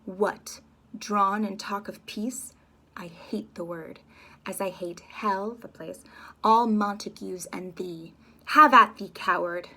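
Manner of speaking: slow taunt building to a loud shout; slow sneer rising to a yell; scornful rage. Acted. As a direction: spit the hatred, then explode.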